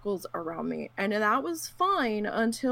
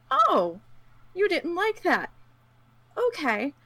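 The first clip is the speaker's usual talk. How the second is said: mocking taunt; 9 semitones higher, 5 dB louder than usual. Mocking the other players' reaction.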